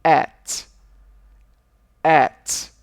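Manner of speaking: at said loud and clear; pronouncing at. Shown as a demonstration. Teacher modelling email symbols for students, loud and clear. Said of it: "O primeiro deles é o".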